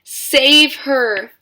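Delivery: high, very loud desperate cry; cried. A narrator's reading. Mother begs Wonka, high and very loud. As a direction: beg at full voice. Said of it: "cried Missus Beauregard".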